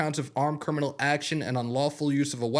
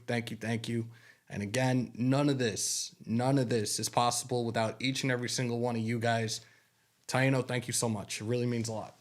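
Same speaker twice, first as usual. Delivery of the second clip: softer, quiet thanks while fighting tears; holding back tears; 3 semitones lower, 3 dB quieter than usual. Real, not acted. Streamer thanking fan Taino for his gift, softly holding back tears. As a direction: thank him gently, trying not to cry. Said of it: "Again, I'm not gonna cry".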